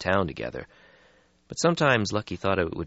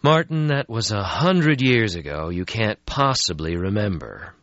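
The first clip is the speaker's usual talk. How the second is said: brisk, a bit higher; young vampire voice; 4 semitones higher, 4 dB louder than usual. Acted. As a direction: brush off the gloom. Lucky voiced in story.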